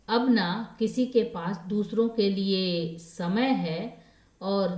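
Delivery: measured, emphatic reassurance as in storytelling; stressing every word. A narrator's reading. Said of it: "कामिनी हर शब्द पर जोर देकर बोली".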